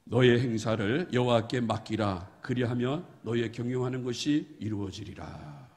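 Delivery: slow, measured recitation of the verse; scripture reading. Acted. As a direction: read the verse aloud together, solemnly. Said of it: "우리 봉독하도록 하겠습니다. 시작". (천천히 봉독하듯)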